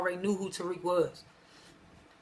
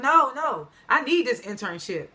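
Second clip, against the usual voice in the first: imitating a worried plea, higher at first; nervous protest; 3 semitones higher, slower than usual. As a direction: plead nervously, easing off after the no's. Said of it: "So Tariq get nervous".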